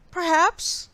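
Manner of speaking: high and loud little voice; squeaky mouse reply. A narrator's reading. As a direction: pipe it up evasively. Mouse evasive.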